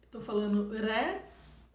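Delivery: res with a light tapped R, slow; slow soft R. Shown as a demonstration. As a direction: stretch out res with a gentle tap. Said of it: "é porque tá suave".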